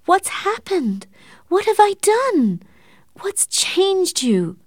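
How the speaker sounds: very high, tearful wailing questions; crying. Acted. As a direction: sob out the questions, slowing at the end. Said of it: "and began to cry again".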